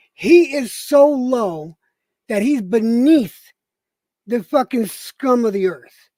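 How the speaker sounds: angry. Real, not acted. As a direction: drag each word out in fury. Angry rant about backstabber.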